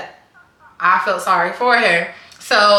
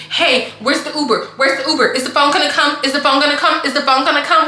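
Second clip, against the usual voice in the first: slightly raised, repetitive mock-anxious questioning; anxious pestering; 3 semitones higher, faster than usual. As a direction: imitate a worried friend nagging on repeat. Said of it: "like, really, really anxious".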